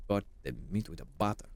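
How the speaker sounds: quick "Cut the meat with a butter" in a hammed-up Italian accent; light mock Italian accent; poor Italian impression. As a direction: rattle off the recipe like a fake Italian cook. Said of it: "I'm doing a poor Italian impression".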